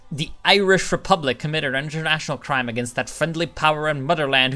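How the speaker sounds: mock Irish accent. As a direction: ham up a fake Irish accent for the event text. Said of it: "I'm just doing a retarded accent".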